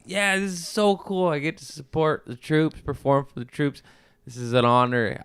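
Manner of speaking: excited. Retold or imitated. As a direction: gush like you just got great news. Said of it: "I was like".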